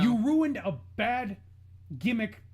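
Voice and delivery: loud, indignant outburst. Real, not acted. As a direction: let the anger out, loud, just short of screaming. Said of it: "I don't wanna scream, but I'm gonna".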